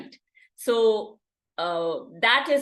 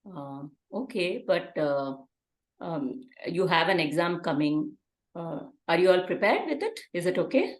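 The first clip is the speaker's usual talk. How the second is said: calm parent. Acted. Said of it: "Now the alternate situation".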